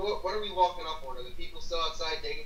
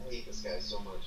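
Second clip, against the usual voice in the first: low, soft exasperated aside; low grumble; 5 semitones lower, 6 dB quieter than usual. Real, not acted. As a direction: grumble it under your breath. Exasperated aside about another player.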